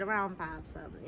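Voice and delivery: drowsy mumble; half-asleep, slurred; sleepy voice. Retold or imitated. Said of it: "in my sleepy ass voice".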